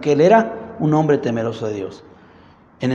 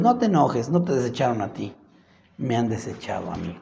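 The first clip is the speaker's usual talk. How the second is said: softer, sinking into a calm reassurance; calm him down gently; soothing God; 3 semitones lower, 5 dB quieter than usual. Acted. God comforting angry Samuel, softening and low. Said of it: "Y dijo Dios".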